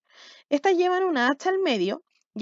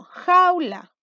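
called out; 5 semitones higher, 6 dB louder than usual. Shown as a demonstration. Example word called out to class.

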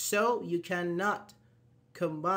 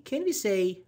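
student's question; much slower than usual. Retold or imitated. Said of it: "one of my students asked me".

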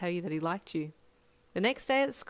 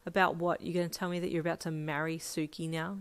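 sarcastic. Acted. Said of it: "you said sarcastically".

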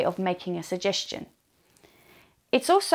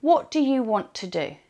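whispered model; 4 semitones higher than usual. Shown as a demonstration. Teacher whispering the model phrase. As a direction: breathe the question out.

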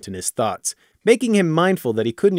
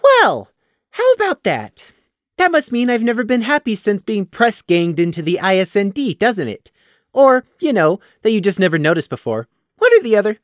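mock thoughtful; 7 semitones higher than usual. A narrator's reading. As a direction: muse aloud with arrogant mockery. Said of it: "he added with mock thoughtfulness".

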